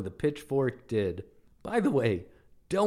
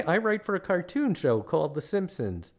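higher-pitched guileless reply; himself in dialogue; 5 semitones higher than usual. Acted. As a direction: answer brightly as the tourist. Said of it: "what follows is a verbatim transcript".

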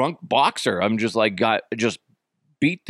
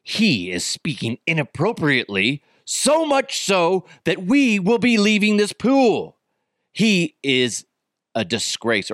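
indignant Karen; 6 semitones higher than usual. Retold or imitated. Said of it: "She's all".

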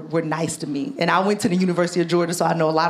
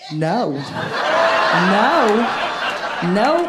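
emphatic refusal; much slower than usual. Real, not acted. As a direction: shut it down hard. Reacting to plantation suggestion.

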